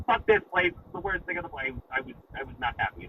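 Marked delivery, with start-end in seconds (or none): 0.1-1.7 high, cursing outburst on leaving; angry outburst. Retold or imitated. Storming out of the dealership, cursing in frustration. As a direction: blurt out the curses in frustration. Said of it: "I got Tourette's the second I walked out".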